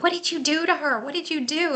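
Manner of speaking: a lightly voiced stunned owner; astonished parents.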